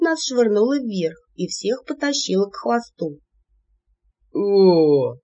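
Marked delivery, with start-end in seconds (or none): 4.3-5.2 startled vampire yelp. A narrator's reading. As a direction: yelp as you drop. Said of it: "опять выкрикнул Айрон". (испуганный возглас)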